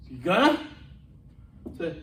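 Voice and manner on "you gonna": "You gonna" run together as a question; slurred shorthand. Retold or imitated. Captain asking a colleague if he's going, slurred shorthand. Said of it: "we can shorten things".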